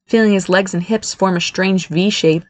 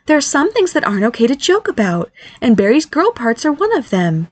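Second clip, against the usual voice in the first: higher-voiced motherly reproach; reproachful; 6 semitones higher than usual. Mother tells son what not to joke about, reproachful. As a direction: lecture him in a raised pitch. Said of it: "Daniel reproached".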